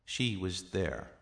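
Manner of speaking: slow, with "She" standing out; emphatic "She", then falling away; stress on She. Shown as a demonstration. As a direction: lean on the opening "She". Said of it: "used when the pronoun is the subject".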